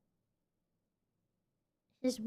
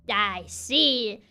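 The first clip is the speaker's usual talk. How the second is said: put-on old witch voice. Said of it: "a voice of an eighty-year-old".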